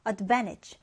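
advantage with the second syllable van pressed; stress on second syllable. Shown as a demonstration. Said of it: "두 번째 음절에 강세를 두고요". (두 번째 음절 강세)

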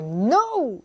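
high, emphatic mock "no"; acted categorical no; flat-out refusal. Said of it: "단정적으로".

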